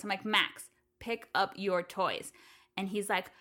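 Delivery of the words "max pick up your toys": slow, firm parent order, mildly raised. Retold or imitated. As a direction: retell a parent raising their voice, word by word. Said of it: "I raise my voice".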